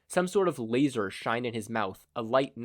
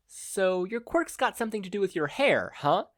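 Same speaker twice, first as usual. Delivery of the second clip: mocking; 9 semitones higher than usual. A narrator's reading. Hero mocking beaten villain.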